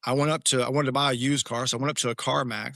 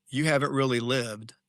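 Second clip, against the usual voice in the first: smiling dry quip; slower than usual. Retold or imitated. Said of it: "And I just smiled and I said".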